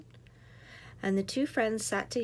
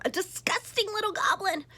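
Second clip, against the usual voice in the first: higher, sneering innkeeper; lightly voiced innkeeper; 11 semitones higher than usual. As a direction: look down on the goblin. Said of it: "said the innkeeper".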